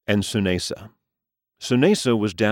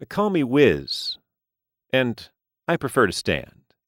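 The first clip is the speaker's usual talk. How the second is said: cool gamer voice; 7 semitones higher than usual. Acted. Wizard answers.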